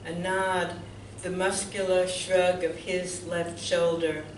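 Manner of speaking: measured poem recital with deliberate pauses; poetry reading. Real, not acted. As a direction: read it line by line, letting each image land. Reads own poem aloud.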